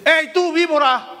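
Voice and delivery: llamado agudo y acusador; increpación. Acted. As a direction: increpa desde lejos, en papel de profeta. Juan increpa a la fila. (increpando en voz alta)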